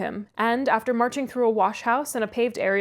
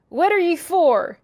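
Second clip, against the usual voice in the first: high, loud shout from a window; loud, high challenge to a caller; 7 semitones higher, 7 dB louder, slower than usual. A narrator's reading. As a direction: holler it as Joseph, slowly. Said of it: "he shouted".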